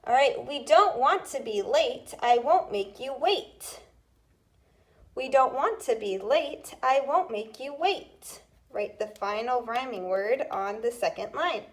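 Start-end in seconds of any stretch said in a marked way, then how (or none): 0.5-3.8 dictation read. Shown as a demonstration. Teacher reading a dictation rhyme to students, clear. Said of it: "Let's do the next three". 5.1-8.4 dictation read. Shown as a demonstration. Teacher reading a dictation rhyme to students, clear. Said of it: "Let's do the next three".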